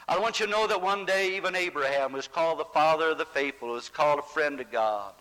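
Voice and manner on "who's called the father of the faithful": ordinary delivery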